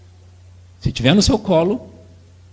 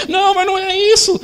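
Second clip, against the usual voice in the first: put-on much higher petulant child; whiny child; 14 semitones higher than usual. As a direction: reject it like a spoiled kid. Child refusing.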